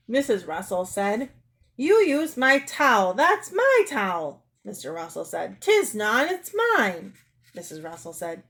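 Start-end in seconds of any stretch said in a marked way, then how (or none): 1.8-4.5 high, loud indignant accusation; quarrelsome. Acted. Acted quarrel over a towel. 5.6-7.1 quarrelsome retort, pitch rising on mine; indignant, raised-pitch denial; contradicting. Acted.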